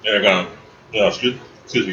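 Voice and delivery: talking through a mouthful of chicken; chewing between words; eating crunchy fried chicken. Real, not acted. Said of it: "guys, I'm eating chicken".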